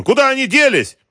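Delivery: very high, loud, frantic demand; angry yell. A narrator's reading. Boss demanding where the money went, angry yell. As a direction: scream the question in a rage. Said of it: "заорал он".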